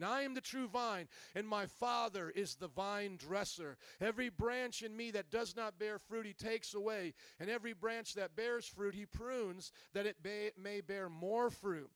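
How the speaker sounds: measured, emphatic Bible reading; scripture reading. Acted. Pastor reads Jesus' words to the congregation, scripture reading. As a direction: read the verse out to the congregation.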